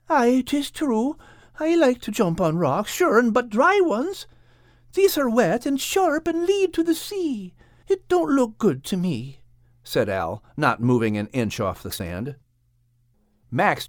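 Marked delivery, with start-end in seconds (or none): 0.1-9.4 Al. Acted. Al hesitant in story.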